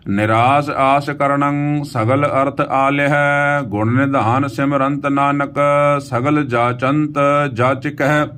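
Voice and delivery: slow, sustained Gurbani reading; measured verse chant on an even pitch; scripture recitation. Acted. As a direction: recite with long drawn vowels.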